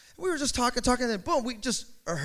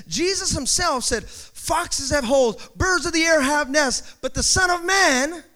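raised, emphatic sermon delivery; forceful preaching; 4 semitones higher, 4 dB louder than usual. Acted. Preacher quoting Jesus to the congregation, emphatic preaching.

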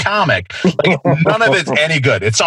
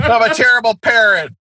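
high, shouted mock despair; hammed-up wail of guilt; spoof movie parent; 7 semitones higher than usual. Parent in the Home Alone spoof shouts his guilt, high mock despair.

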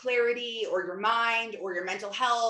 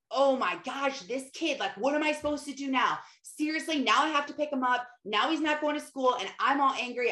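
re-enacted exasperation, higher pitched; mild mock fuming, pitched up; angry rant; 5 semitones higher than usual. Mom venting about her suspended son, mildly angry. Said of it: "I'm, like, angry".

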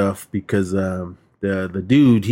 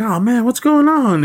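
mock innocent shopper; 13 semitones higher, 3 dB louder than usual. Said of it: "she goes out there like".

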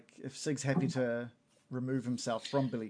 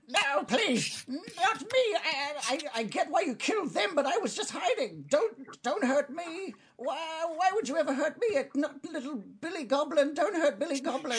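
very high, squeaky begging goblin; high-pitched goblin pleading to be spared. Acted. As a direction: plead for your life in a tiny high-pitched voice. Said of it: "just gonna start sort of pleading".

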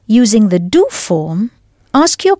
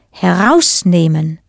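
Herausnehmen with the weight on "heraus"; stress on first part; 3 semitones lower than usual. Shown as a demonstration.

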